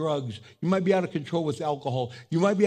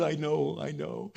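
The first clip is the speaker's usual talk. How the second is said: hushed, falling reassurance; softly calm someone who is wailing; soothing comfort; 4 semitones lower, 6 dB quieter than usual. Acted. God soothes the wailing person.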